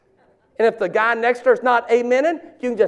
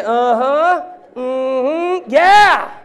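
affirming murmurs; much slower than usual. Shown as a demonstration. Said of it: "someone ought to say".

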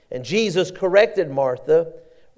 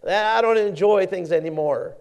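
blaming wife; 6 semitones higher than usual. Retold or imitated. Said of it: "A wife blames a husband".

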